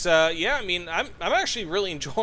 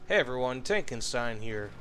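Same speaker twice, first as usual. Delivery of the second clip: sultry narrator; 5 semitones lower, 3 dB quieter than usual. Shown as a demonstration. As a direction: purr the channel greeting like a seductive host. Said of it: "my sultry voice saying".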